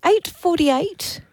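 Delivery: incredulous. Real, not acted. Incredulous at odd tee time.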